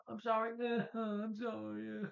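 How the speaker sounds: very high, slow, sing-song apology broken by a laugh; mock-sweet cruel apology. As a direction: taunt with fake sorrow and giggle. Julie mocking a captive.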